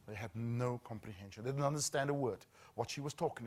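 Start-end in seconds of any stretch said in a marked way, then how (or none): 0.1-1.4 breathy unvoiced whisper. Real, not acted. Whispering to the audience about the children's shock. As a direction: drop to a hushed whisper.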